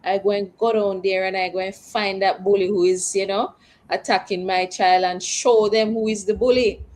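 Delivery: fast, indignant threat of a riled parent; bristling, ready to go sort out the bully; defiant parent. Retold or imitated. A host voicing an angry parent, quick and indignant. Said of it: "kiss them teeth and say".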